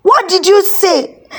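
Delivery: loud shocked cry, then high; shocked shout. A narrator's reading. Onlookers shocked at the confession, loud shocked shout. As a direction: cry out in disbelief. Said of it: "Everybody shouted".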